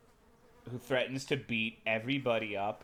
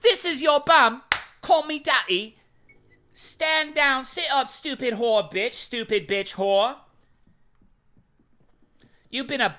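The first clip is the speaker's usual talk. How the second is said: much higher and louder, hammed-up bossy Brit; angry British guy; 11 semitones higher, 10 dB louder than usual. Streamer acts out the angry British guy they find hot, hammed-up and loud. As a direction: bark silly orders like a pompous Englishman. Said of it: "I find angry British guys hot".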